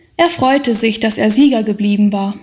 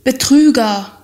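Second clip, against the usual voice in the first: shouted; 3 semitones higher than usual. A narrator's reading. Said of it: "schrie eine Stimme in seinem Innern".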